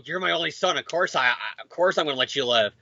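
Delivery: quiet fatherly reassurance; soft expected line. Retold or imitated. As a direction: say it gently like a loving dad. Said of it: "I was expecting to go".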